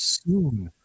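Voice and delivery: slow, glassy-eyed promise; mock starry-eyed scientist, slow; dreamy true believer. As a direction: drift off like she's staring past you. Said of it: "just gloss in her eyes, she goes".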